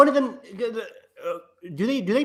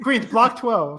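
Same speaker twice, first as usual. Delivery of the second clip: slow, high caption read; title card announcer; 7 semitones higher, much slower than usual. Pretend.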